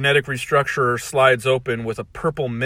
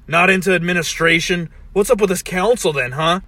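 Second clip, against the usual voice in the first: challenging Rick voice; 6 semitones higher, 5 dB louder than usual. Acted.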